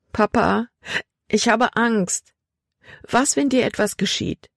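put-on a scared girl holding back tears; tearful fear. A narrator's reading. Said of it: "Tränen stiegen Libby in die Augen". (ängstlich und den Tränen nahe)

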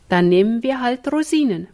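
ordinary delivery

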